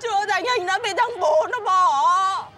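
tearful. Acted. Crying about her unborn child.

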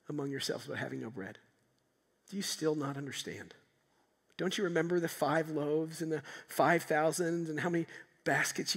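tender Jesus concerned for his disciples; merciful. Shown as a demonstration. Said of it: "What if he said it like this?".

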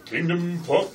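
booming announcer intro; radio announcer voice. Acted. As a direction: start the big radio voice, then stop. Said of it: "I'm gonna do my radio voice".

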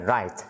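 "write" ending in a released t; final T sound. Shown as a demonstration. Teacher separates it from rice, "write" with a sounded final t. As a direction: finish "write" on a t, unlike the s of rice. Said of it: "âm tờ".

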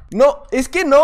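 ordinary talk

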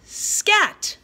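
high, loud storybook shout of Scat. Shown as a demonstration. Teacher showing pre-K kids how to read it loud. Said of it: "We say it loud".

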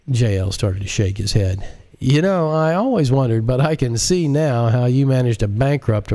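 amused, condescending character voice with a laugh; lightly voiced sneering hacker; mocking J L. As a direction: tease him like he just told a joke. J L mocking the director.

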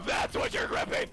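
hyped high callouts; excited shouting. Real, not acted. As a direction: shout hyped mid-fight.

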